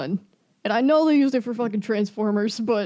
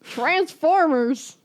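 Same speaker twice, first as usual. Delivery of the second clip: drawn out, higher, punched title; mock exasperation; 5 semitones higher, much slower than usual. Real, not acted. Griping to co-host about the songs' movie use, mock exasperation. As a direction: stretch the word out with comic scorn.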